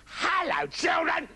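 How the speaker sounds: high wolf trying to sound nice; falsely nice, high-pitched greeting; wolf's practised nice voice. Acted. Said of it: "practiced speaking with a nice voice".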